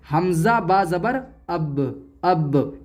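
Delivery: अब with the final b lightly bounced; qalqalah bounce. Shown as a demonstration. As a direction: give the b at the end of अब a small jolt and release. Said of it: "अब हम इसको ऐसे पढ़ेंगे". (अब के ब पर हल्का झटका)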